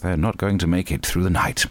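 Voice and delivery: measured doctor with swooping stresses; posh doctor voice. Acted. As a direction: play a posh hospital doctor, emphatic. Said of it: "That's my doctor voice".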